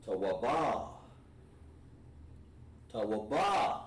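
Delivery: "Tawaba" with a clear final a; tawaba, female form. Shown as a demonstration. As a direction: sound out "Tawaba" ending in -ba. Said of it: "She's gonna say".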